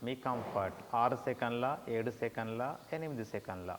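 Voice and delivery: measured meditation guidance with long pauses; guided meditation. Shown as a demonstration. Teacher guides students to pause the breath, meditation voice. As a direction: pace each instruction to a breath, stretching the Oms.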